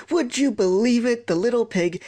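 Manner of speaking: high, indignant dad's outburst; mock roar of an outraged father. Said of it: "he's roaring".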